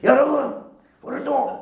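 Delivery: high, loud rousing call; loud preacher call. Shown as a demonstration. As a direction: proclaim it to the back row. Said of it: "이렇게".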